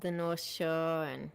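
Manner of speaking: put-on drawn-out Boston accent on North Shore. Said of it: "listen to my pathetic Boston accent".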